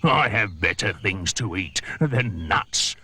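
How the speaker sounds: slow, disdainful; sniffy scorn. Acted. The crocodile scorning the monkey's nuts, sniffy. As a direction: turn your nose up at it. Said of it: "sniffed the crocodile".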